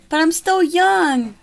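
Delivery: high pleading pig voice; begging pig. Acted. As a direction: wail your last plea.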